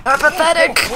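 hammed-up indignant cry; mock outrage. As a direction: exclaim the word indignantly, high.

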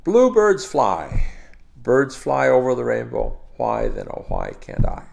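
song lyrics spoken as metered verse; spoken lyric with a lilting beat; rhythmic recitation. Shown as a demonstration. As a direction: recite in even phrases, lifting and stretching key words. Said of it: "shijo is a very natural, very beautiful sort of, uh, rhythm".

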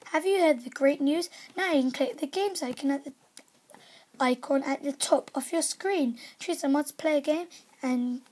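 upbeat announcer read; lively game-news announcer. Acted. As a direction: sell each line like an ad. Reads game news aloud.

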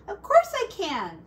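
high, loud, cheerful yes; eager grandma. Acted. Grandma Poss answers Hush at once: bright, eager promise. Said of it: "said Grandma Poss".

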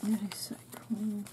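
breathless hushed whisper; soft gasp of delight; awed whisper. Real, not acted. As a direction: whisper it in awe. Awed unboxing of gifts.

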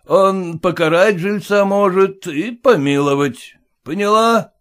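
blunt merchant scoffing at formality; gruff merchant. Acted. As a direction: push in like the owner. Merchant threatens.

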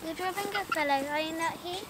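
softly asking, almost to himself; a hushed, tentative question; quiet. Acted. Fairy questions Puck, twice.

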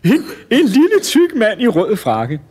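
high, loud, slow disbelief; incredulous amusement. Acted. Showman spots the tiny challenger, high amused disbelief. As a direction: draw it out, astonished and amused. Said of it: "han var ved at dø af grin".

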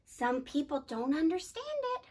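belted shout. Shown as a demonstration. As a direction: shout it out loud. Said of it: "you shout as loud as you can".

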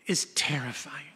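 hushed and breathy; whispered warning. A narrator's reading. Preacher telling followers Jesus is terrifying, in a whisper. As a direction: drop to a whisper on the last word. Sermon punchline.

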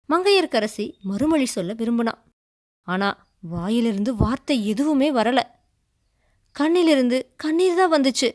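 plain reading voice

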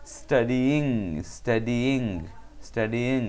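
"স্টাডিইং" in separate sounds, study plus a distinct -ing; pronunciation demo. Shown as a demonstration. Teacher showing how to pronounce "স্টাডিইং", said carefully with the -ing distinct. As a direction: repeat "স্টাডিইং" evenly, keeping both i sounds. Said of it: "উচ্চারণ কি হবে?".

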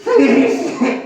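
theatrical, imploring call; plaintive plea. Shown as a demonstration. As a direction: beg like a melodrama heroine. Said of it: "애절하게 해야지". (신파조로 애절하게)

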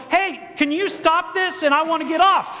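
high call to the operator; hammed-up rider's protest; mock panicked plea. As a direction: act out begging to get off a ride. Acted plea to stop the ride.

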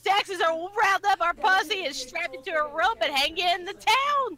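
lightly put-on redneck Texan accent; a hint of angry Texan; mock Texan. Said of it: "I was the redneck stereotype".

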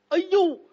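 high, loud aiyo of panic; alarmed cry. Acted. Threatened, Gao yelps in dismay. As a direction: yelp in dismay.

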